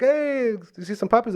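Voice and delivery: high, put-on friendly call; puppy-adoption guy. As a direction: imitate a chirpy staffer greeting a customer. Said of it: "the guys there's like".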